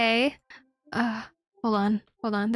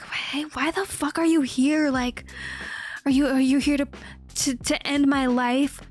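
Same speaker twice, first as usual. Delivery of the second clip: mock cowboy showdown. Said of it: "cowboy standoff in a Western".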